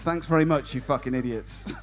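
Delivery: sarcastic thanks. Retold or imitated. Mock thanks to students.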